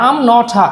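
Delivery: "not a" joined as "no-tha"; linked collocation. Shown as a demonstration. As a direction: link "not a" with a lightly aspirated t. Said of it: "এখানে দুটা collocation". ("not a" একসাথে "নঠা" উচ্চারণ)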